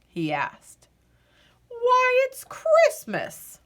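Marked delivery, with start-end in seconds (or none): 1.7-3.6 very high, loud, slow amazed voice; Santa, surprised. A narrator's reading. Santa amazed the captain doesn't know it is Christmas, high delighted voice. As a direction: sound astonished anyone asks.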